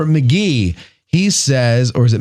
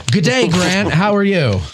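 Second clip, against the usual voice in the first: put-on playful Australian accent greeting, pitched up; Australian accent attempt; 7 semitones higher than usual. Host greeting an Australian caller in a mock Australian accent. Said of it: "That's an excellent accent attempt".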